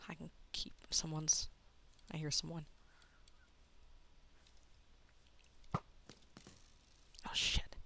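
hushed, low-energy mutter to himself; whispering. Real, not acted. Player hears someone nearby in the game, whispering. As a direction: keep it down as if someone might hear. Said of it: "Why am I whispering?".

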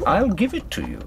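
high, sneering offer of the gun; mock offer. Gunman taunting Sophie with the gun, high sneering voice. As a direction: dangle the gun before her with a sneer.

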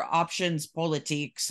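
"options politiques" in a French accent. Shown as a demonstration. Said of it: "my French accent is terrible".

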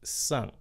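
"Saint" said the French way, like "sang"; short nasal French "Saint", final t silent; French pronunciation. Shown as a demonstration. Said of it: "phải theo người Pháp phát âm là Saint".

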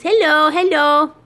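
high, loud, drawn-out hello; calling out hello. Acted. Owner showing her cat to viewers, calling out hello. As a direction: sing out a slow, loud greeting.

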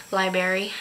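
"Library" said as "lie-berry"; dropped-R library. Real, not acted. Vlogger catching a slip, "Library" pronounced "lie-berry". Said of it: "Did I just say that?".

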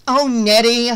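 high, loud indignant cry; exasperated. A narrator's reading. Rescuer slaps away the prankster, exasperated. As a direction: scold him for the trick. Scolding the prankster after fake drowning.

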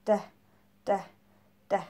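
"da" said as short, separate, voiced taps; repeated "da" said crisply like a drum; drum-beat da sounds. Shown as a demonstration. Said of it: "we're making the da sound".

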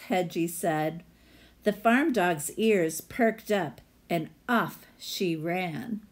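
lively read-aloud storyteller voice; story narration. Acted. Teacher reading a picture book to her class, storytelling voice.

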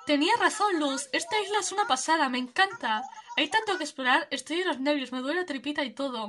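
eager, bubbly new neighbour; excited villager. Acted. Streamer voicing Mónica thrilled about the island, lightly excited.

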